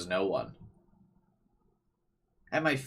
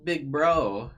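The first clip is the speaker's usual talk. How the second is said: little sister voice; 6 semitones higher, 6 dB louder than usual. Acted. Voicing little sister character.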